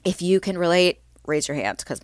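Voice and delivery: allergy-stuffed, congested voice; stuffy nose. Real, not acted. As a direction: talk through a stuffy nose. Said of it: "I may sound a little stuffy".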